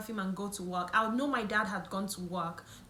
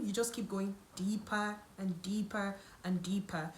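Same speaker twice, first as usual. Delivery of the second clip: whisper; 2 semitones lower, 4 dB quieter than usual. Acted. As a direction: drop to a hushed whisper. Rabbit hole of research.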